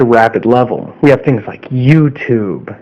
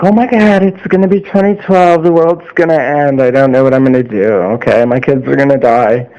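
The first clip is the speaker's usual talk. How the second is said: run-on mock panic, pitched up then easing; mock freaking out. People freaking out over dying birds and fish, mock panic. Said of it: "everybody was freaking out".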